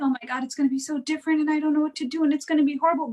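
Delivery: fast, panicky rush of worry; mock-anxious parent spilling fears. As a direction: gabble it like a frantic parent. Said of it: "like, if you're like".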